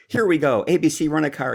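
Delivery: father's voice. Retold or imitated. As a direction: find the next lead with relish. Dad finds a name in phonebook.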